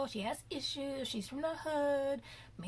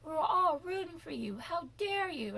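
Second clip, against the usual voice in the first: higher, rising into a mock yell; Tyra's famous rant; 6 semitones higher than usual. Recreating Tyra's famous scolding of the contestant. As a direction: imitate the scolding judge. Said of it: "Tyra did that famous".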